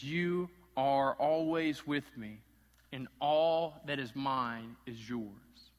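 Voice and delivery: slow, gentle reassurance; reassuring father. Retold or imitated. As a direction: comfort the resentful son. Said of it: "He validates the son".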